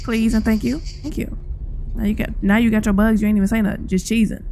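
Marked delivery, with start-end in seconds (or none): 0.8-1.4 whispered thanks. Real, not acted.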